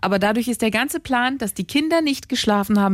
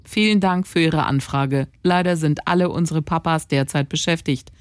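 robot voice; 3 semitones lower than usual. Retold or imitated. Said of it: "mit Roboterstimme".

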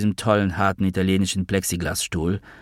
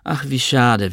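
higher, mock-sorry tone from above; ironic, condescending; 5 semitones higher than usual. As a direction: talk down to him with fake pity. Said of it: "ironisch und leicht von oben herab". (ironisch, leicht von oben herab)

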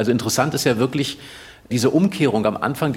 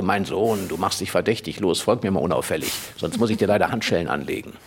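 a lightly lowered, quick policeman's warning; hint of a stern Schupo talking down to a boy; imagined policeman; 4 semitones lower, 3 dB quieter than usual. Policeman warning the hiding boy, lightly lowered and stern. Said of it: "kam und sagte".

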